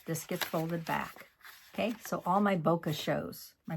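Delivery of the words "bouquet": "bokeh" ending in an unstressed "kuh"; habitual mispronunciation. Real, not acted. Crafter slips on a product name, "bokeh" as BOH-kuh. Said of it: "I always wanna say bokeh".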